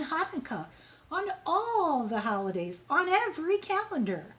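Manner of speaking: sweeping grand proclamation; ecstatic principal. Acted. Principal wildly carried away.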